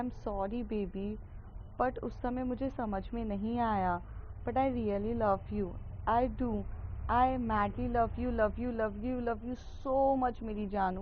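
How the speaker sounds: slow, soft love-note voice; tender pleading. Acted. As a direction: coax her gently, slowly. Love note pleading to angry girlfriend. (नाराज़ प्रेमिका को धीमे, नरम स्वर में मनाते हुए)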